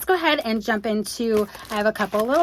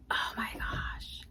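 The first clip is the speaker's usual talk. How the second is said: breathless whisper of awe; awed whisper; 15 dB quieter, slower than usual. Real, not acted. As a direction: whisper it, overwhelmed. Awed by the figure.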